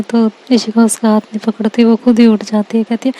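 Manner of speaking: plain reading voice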